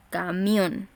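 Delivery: "Camión" stretched towards a held MIÓN; stressed last syllable. Shown as a demonstration. Teacher repeating the example, stressed final MIÓN in "Camión". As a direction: lean on MIÓN at the end of "Camión". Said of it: "en la última sílaba".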